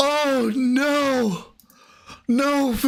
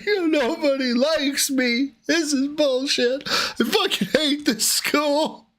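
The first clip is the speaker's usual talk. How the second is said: put-on laughing, higher whiny teen; mock sulky teen; 5 semitones higher than usual. Host mocks the caller as a sulking schoolboy, laughing. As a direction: whine like a bitter kid.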